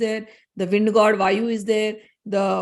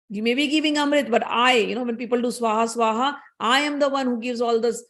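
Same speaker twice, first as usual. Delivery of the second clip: indignant retort; 2 semitones higher than usual. Acted. Agni answering the moon god, mildly indignant. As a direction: push back, offended.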